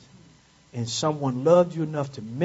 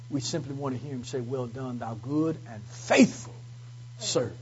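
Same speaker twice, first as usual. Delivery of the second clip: tender hope; 3 dB quieter than usual. Acted. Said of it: "preaching, softening close".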